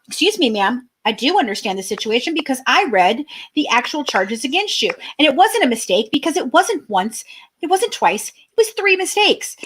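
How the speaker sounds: rising, indignant correction; indignant retort. Retold or imitated. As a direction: pitch rising indignant comeback. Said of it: "retorting to offender".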